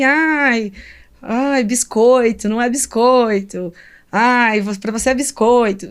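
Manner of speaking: mock teasing. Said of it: "Uma brincadeirinha assim".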